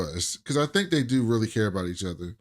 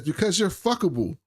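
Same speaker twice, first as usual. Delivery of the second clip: mimicking her; 6 semitones higher than usual. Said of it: "and she says".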